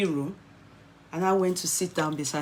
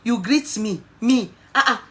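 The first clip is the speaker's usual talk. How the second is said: higher, louder, insisting it wasn't her; retold loud denial; 5 semitones higher, 6 dB louder than usual. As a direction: protesta exaltada, mais aguda e alta. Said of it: "I said".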